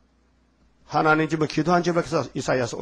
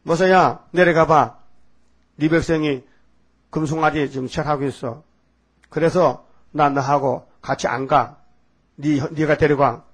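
command, then refuse slowly; lightly voiced God. God tells Moses to go down, commanding then slow refusal.

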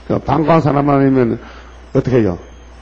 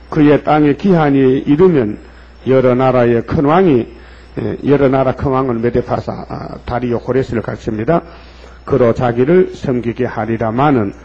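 scripture reading. Acted. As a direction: read the verse with weight. Reads scripture in sermon. (느리게 성경 낭독)

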